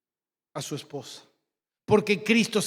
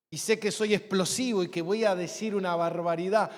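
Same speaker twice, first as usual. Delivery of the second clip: normal talking voice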